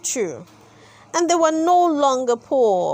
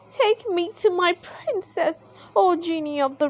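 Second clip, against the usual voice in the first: begging; 5 semitones higher than usual. Acted. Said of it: "Aladdin begged".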